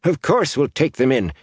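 put-on gruff, high-pitched old man; grudgingly agree, gruffly; testy old villager. A narrator's reading. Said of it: "the Thatcher said gruffly".

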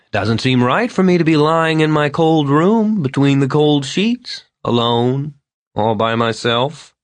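put-on lonely old man complaining to the couple; maudlin drunk Vern. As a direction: whine about your cold lonely bed. Vern's long complaint.

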